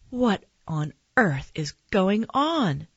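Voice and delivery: slow, mildly exasperated question; exasperated cry. Acted. Mom faced with another dinosaur, slow mild exasperation. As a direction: stretch the words in disbelief, without shouting. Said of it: "my mom cried".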